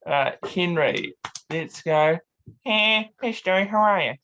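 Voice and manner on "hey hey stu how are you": Peter Griffin impression. Shown as a demonstration. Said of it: "voice impression".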